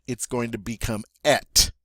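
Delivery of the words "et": et said with an open eh vowel. Shown as a demonstration. Teacher showing et changing before a vowel. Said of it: "Instead of having that A sound".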